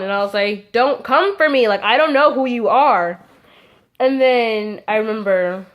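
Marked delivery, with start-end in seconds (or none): 0.7-3.2 acted-out defiant clapback; sassy comeback. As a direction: stand up to the teacher with attitude. Acts out quarrel with teacher.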